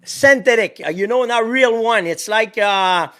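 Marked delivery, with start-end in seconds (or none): 0.0-2.1 synthetic said sen-teh-tik with a French t; French-accented synthetic, no th sound. Real, not acted. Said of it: "That's my French accent again".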